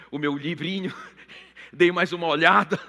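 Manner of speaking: usual speaking voice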